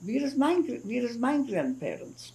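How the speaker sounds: a hint of a lost five-year-old asking for his grandparents; imitating her small son. Mother retells her son asking where his grandparents are, lightly voiced child. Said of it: "he said to me".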